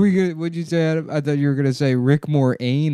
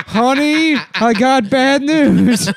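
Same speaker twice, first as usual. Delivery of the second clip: high, slow hammed-up spouse voice; breaking bad news, dragged out; mock bad news voice; 7 semitones higher, slower than usual. Mock announcement to a wife.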